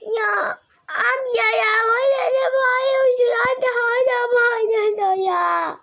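put-on little girl whining at her brother; whiny complaint. Girl whines at shouting brother.

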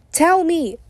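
high, sharp shouted demand; angry shout. A narrator's reading. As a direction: bark the order at him. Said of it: "he shouts at Jude again".

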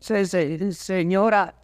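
a nervous servant tripping over his lady's name; frightened stammer. Acted. Servant answering his lady in the dark tower, stammering in fear. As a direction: stammer out the word, scared.

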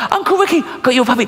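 put-on very high, squealing child voice; excited little girl. Niece greeting her uncle about the puppy, high excited child voice.

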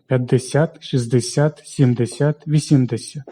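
п'ятдесят, шістдесят, сімдесят, вісімдесят stressed on final СЯТ; stress on last syllable. Shown as a demonstration. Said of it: "наголос падає на останній склад". (наголос на останній склад: п'ятдесят, шістдесят, сімдесят, вісімдесят)

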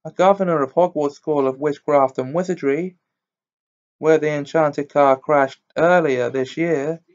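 lightly voiced news bulletin; newspaper report read. A narrator's reading. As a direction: read it out like a headline story. Reads newspaper cutting aloud.

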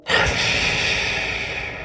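monster snarl. A narrator's reading. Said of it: "The man snarled".

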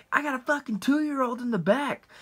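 a high, lightly voiced upset mother; a hint of an indignant woman protecting her child; angry lady. Angry mom at drive-thru.

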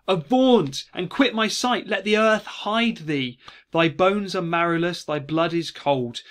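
loud, high theatrical command; calling out. Acted. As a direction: banish the ghost in a dramatic cry, easing off by the end. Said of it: "and he calls out".

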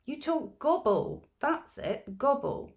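put-on high, loud teasing little girl; giggling nursery child, high and loud; child's voice. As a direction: tease like a small child, up high. Child teasing about the accent.

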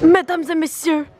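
grand entrance announcement. Pretend. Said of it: "Veuillez accueillir".

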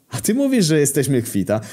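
high-pitched incredulous question; acted indignant retort; outraged echo. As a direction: throw the offer back in disbelief. Victim throws truce back in outrage.

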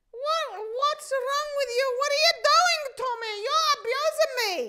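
revived lady protesting to the rescuer; indignant. Retold or imitated. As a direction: protest as if wronged.

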